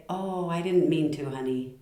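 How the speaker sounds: soft, tender reassurance; loving apology. Shown as a demonstration. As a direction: soothe a spouse, voice easing down. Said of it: "the tone of voice changes everything".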